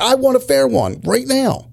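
high, taunting yell-ish retelling; mock tough challenge. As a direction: imitate a guy itching to fight. Quoted guy challenging partner.

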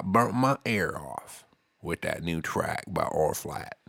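put-on hamming up a country boy bragging on a band; put-on country accent. Podcaster bragging about R Flats in country accent. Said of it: "I cracked the seal on some shit, accent-wise".

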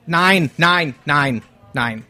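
mock German accent, comfortable in it; put-on German accent. Guest claiming his own accent, German accent. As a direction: play a hammy German character. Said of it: "talking in my own accent".

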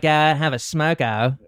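put-on Australian, stretched vowels; Australian accent attempt. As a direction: try out a drawled Australian accent. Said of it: "I don't do Australian".

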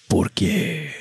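mock crying. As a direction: imitate a weeping soap opera husband. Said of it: "the man that ends up crying".

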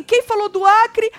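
high, loud, drawn-out indignant question; mock outrage. Retelling Tonzão asking who mentioned Acre, high mock outrage. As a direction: blurt it as an outraged challenge. Same challenge acted again.

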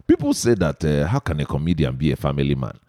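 playfully exaggerated Igbo accent. Host poses the segment's question to his guest, Igbo accent. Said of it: "And so I super emphasize it".

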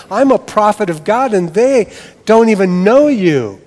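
loud aggrieved complaint; Jonah's wounded pride, pushing back; indignant Jonah. Acted. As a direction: prophet Jonah protesting to God, loud and aggrieved. Jonah voiced complaining to God.

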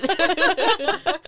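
bright burst of giggling; high giggle. Real, not acted. Guest laughing off being called a collab pro with a high giggle.

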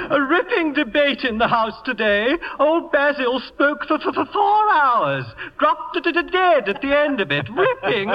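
a hint of a stuffy aristocrat grumbling about the shoot; mild mock upper-class bluster; pompous Lord Bottomley. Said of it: "No one sounds like that".

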